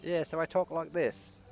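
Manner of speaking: lightly put-on South African-Australian mix; fake foreign accent. Shown as a demonstration. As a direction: play the foreign-born new hire, lightly. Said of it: "I talked like this the entire time".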